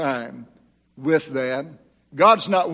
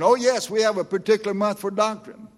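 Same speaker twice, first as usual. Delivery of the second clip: higher, breezy answer of the pastor; imitated pastor; 6 semitones higher than usual. Preacher imitating the pastor's breezy answer about doctrine. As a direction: lightly voice him, untroubled. Pastor voiced in retold talk.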